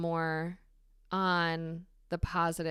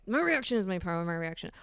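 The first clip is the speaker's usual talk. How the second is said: self-shaming; faster than usual. Retold or imitated. Repeating her affirmation to herself, self-shaming. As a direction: snap the affirmation at yourself. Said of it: "almost shaming myself".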